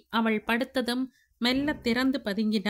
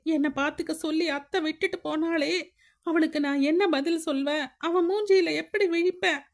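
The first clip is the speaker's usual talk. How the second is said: higher, lamenting man, voice rising in false anguish; mock outrage; 6 semitones higher than usual. Siva pretending grief to Anu, hammed-up lament. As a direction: rail at the culprit, then wail to God.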